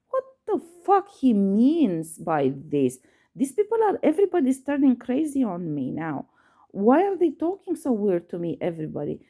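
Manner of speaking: retold exasperated outburst, pitch jumping up; mad. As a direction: replay your angry disbelief, stressed and incredulous. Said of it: "I was like so mad".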